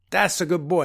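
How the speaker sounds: patronizing wise guy, lightly voiced; a hint of mobster approval; wise-guy doctor. Doctor slapping a patient's cheek, mock wise-guy voice. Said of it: "wise guy gravitas".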